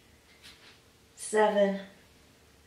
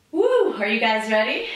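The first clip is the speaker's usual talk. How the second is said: loud, high whoop to pump up the class; excited cheer; 5 semitones higher, 8 dB louder than usual. Real, not acted. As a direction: whoop with energy. Hyping up the class.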